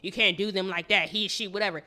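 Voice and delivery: lightly mock the people crying transphobic; mocking critics. Podcast host mocks online critics, lightly mocking whine. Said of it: "a lot of people like".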